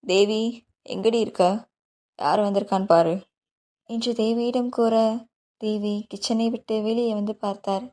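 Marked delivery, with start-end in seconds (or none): 0.1-3.1 calling out to wife. A narrator's reading. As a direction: call her out of the kitchen. Father calls wife excitedly. (மனைவியை உரக்க அழைக்கும் கணவன்)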